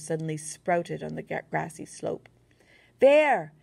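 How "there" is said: high, loud spotting yell. A narrator's reading. German soldier yelling on spotting them, high and loud. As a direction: yell it out, pointing. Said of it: "yelled one of them".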